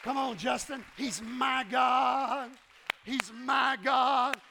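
loud, driving preacher shout; fiery loud sermon climax; preaching at full force. Acted. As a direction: preach it home to the church.

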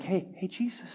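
a shy little half-hearted call; mock timid call. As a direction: beggar calling Jesus too softly, mock quiet. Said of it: "didn't just be quiet".

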